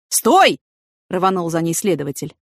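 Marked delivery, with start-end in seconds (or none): 0.1-0.6 loud, higher urgent command; calling after someone. A narrator's reading. Investigator calling after Yana as she runs away, urgent. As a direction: shout to stop someone running off.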